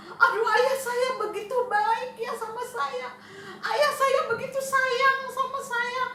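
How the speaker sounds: a son overwhelmed by his father's kindness; remorseful son. Acted. Remorseful son marvelling at his father's kindness.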